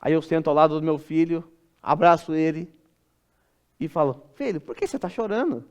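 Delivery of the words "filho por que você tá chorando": pergunta de pai, bem baixinho; consolo de pai. Acted. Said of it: "significa outra coisa". (consolo paterno em voz baixa)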